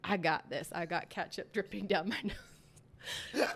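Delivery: loud, fired-up battle cry; ketchup-soaked cashier, loud and defiant; defiant yell. Retold or imitated. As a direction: shout it like going to war. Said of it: "I was like".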